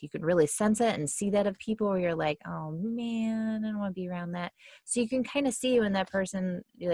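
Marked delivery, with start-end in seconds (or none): 2.5-4.5 reluctant aside. Acted. Reacting to a depressed person.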